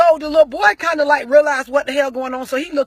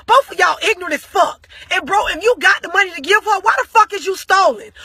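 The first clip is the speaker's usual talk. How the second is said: retold cussing out; 3 semitones higher than usual. Friend lecturing both parents on child support, heated and raised. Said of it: "cussed them both the fuck out".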